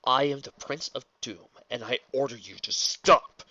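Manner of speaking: building to a loud final shout; authoritative command. Acted. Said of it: "Lotor's authoritative voice".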